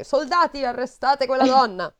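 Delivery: hammed-up king calling his soldiers; royal command. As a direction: bark the order like a king in a fable. King orders the stepmother's arrest.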